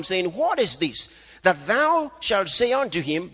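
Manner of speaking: emphatic preacher reading from the Bible; scripture reading. Acted. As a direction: declaim the verse to the congregation. Reads scripture aloud to congregation.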